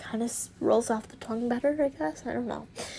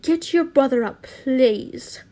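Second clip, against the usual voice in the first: urgent call; 6 dB louder, slower than usual. Acted. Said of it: "she asked".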